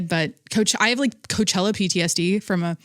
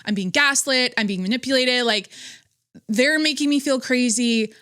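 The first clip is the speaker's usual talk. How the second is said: higher-pitched reenactment of frantic inner thoughts; retold feeling crazy; 4 semitones higher than usual. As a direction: replay your spiralling thoughts from a fight, pitch climbing. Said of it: "I have felt so crazy in these fights".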